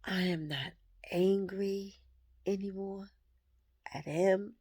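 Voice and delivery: quiet, halting words through real tears, long pauses between; fighting back tears as relief sinks in; tearful, choking up. Real, not acted. Speaking to viewers about her ex, softly tearful and broken up. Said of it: "Pardon me if I get emotional".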